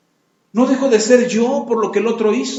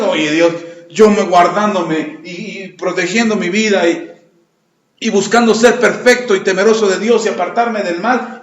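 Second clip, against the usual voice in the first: mock complaining Job; 5 semitones lower than usual. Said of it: "¿O se quejó por Dios?".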